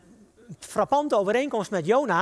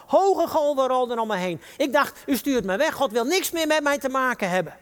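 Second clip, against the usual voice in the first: raised, pressing preacher's voice; desperate prayer; 5 semitones higher, 3 dB louder than usual. Acted. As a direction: build the despair high and forceful. Preacher acts Jonah's desperate prayer.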